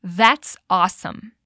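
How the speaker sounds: that's awesome said slowly, mildly delighted; slow, pleased model phrase; slow mild enthusiasm. Shown as a demonstration. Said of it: "Repete comigo".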